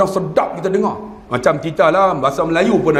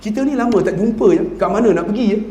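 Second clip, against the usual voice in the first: Johor dialect. Retold or imitated. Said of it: "orang Johor cakap".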